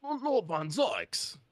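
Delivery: slow dramatic. Acted.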